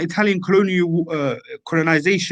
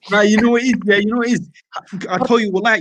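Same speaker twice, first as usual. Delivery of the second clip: pumped-up talk; 4 semitones higher than usual. Real, not acted. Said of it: "I'm talking like this".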